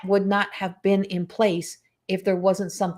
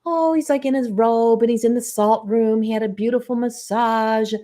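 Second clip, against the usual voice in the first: mock happy gushing; 3 semitones higher than usual. Describing partner's salt room treat, mockingly happy. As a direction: gush in mockery of a contented partner. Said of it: "He's all happy".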